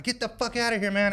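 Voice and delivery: high-pitched mock yell; retold angry order. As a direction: imitate yourself chasing off an intruder. Retold yelling at an intruder.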